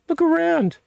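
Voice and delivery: insistent high call. Real, not acted. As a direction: push it harder the second time. Repeated higher urging.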